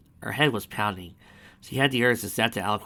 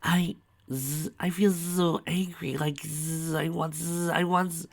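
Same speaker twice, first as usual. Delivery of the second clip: higher, tearful fury; higher sobbing rage; sobbing anger; 8 semitones higher, slower than usual. Acted. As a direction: choke on angry sobs.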